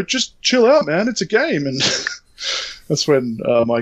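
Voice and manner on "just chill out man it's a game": high mocking chill-out; 1 mock dismissive. Hero guy telling him to calm down, high mock voice. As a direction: imitate his condescending brush-off. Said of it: "then he goes".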